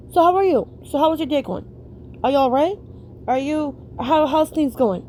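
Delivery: sincere, caring check-in; kind, loving small talk; genuine, kind. Shown as a demonstration. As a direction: ask like you really care. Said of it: "Genuine, kind, loving".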